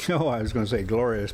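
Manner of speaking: chuckling through the aside; amused self-correction; laughing at own slip. Real, not acted. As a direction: laugh off the misread.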